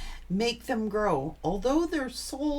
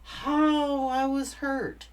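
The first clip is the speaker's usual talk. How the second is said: usual speaking voice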